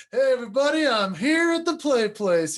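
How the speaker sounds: light imitation of a toddler boy. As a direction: play the proud three-year-old calling out to the room. Dad voicing his toddler son.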